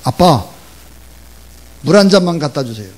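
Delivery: put-on child's loud call to Dad. Child calls to dad watching TV for water, calling out. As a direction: call out loudly for a favor. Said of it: "큰 소리로 이렇게 외쳤습니다".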